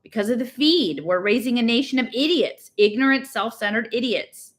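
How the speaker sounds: angry rant. Acted. Girl rails about what people don't know, mildly angry. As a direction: rant with a touch of anger. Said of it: "it's something that makes me angry".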